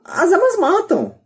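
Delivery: put-on high, slow whiny girl voice; a daughter protesting in a high, slow voice; daughter's line. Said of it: "a filha dele falando".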